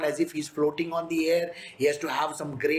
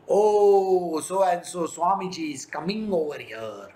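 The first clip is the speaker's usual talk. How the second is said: herald announcing; 4 dB louder than usual. Retold or imitated. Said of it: "They should be announcing".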